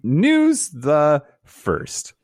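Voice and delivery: slow, drawn-out announcement; slow announcer. Acted. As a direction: stretch it like an announcer. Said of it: "announces news segment".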